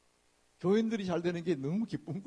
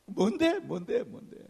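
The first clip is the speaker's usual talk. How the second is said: higher, louder pestering; higher, louder eager asking; eager nagging; 5 semitones higher, 4 dB louder, slower than usual. Retold or imitated. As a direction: pester for the gossip.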